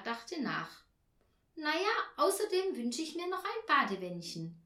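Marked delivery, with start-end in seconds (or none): 1.6-4.6 put-on high, eager little girl; child Tina. Girl telling her mother her wishes, high and eager. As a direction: pipe up like a small girl listing wishes.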